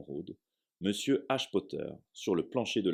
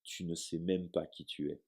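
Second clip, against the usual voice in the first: stunned quiet; 6 dB quieter than usual. Acted. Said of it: "dit-il enfin".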